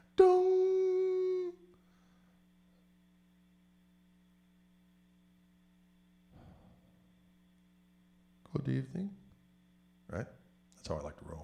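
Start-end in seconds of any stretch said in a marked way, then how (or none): 0.2-9.1 very high, swooping sing-song, with "dong" stretched out. After a pause that seemed like the stream had stopped, doing an Eckhart impression. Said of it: "I was just doing a little Eckhart".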